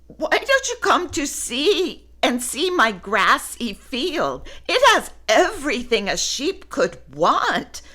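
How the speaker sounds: inviting, eager; friendly offer. Acted. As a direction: welcome him in. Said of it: "offered Woolly".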